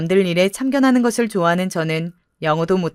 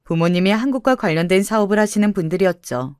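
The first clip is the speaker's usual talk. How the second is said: plain reading voice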